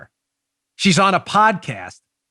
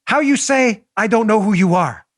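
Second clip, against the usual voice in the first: mock Spanish accent; 4 semitones higher than usual. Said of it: "probably in a Spanish accent".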